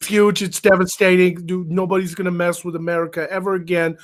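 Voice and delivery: hammy bragging like a campaign rally; Trump impression. Podcaster mocks Trump boasting about lasers, lightly voiced. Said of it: "It's a terrible Trump impression".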